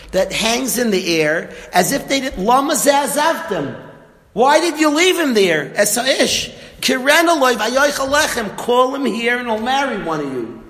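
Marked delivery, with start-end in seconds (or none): 2.4-10.3 rising demand. Retold or imitated. Yisro demands of his daughters.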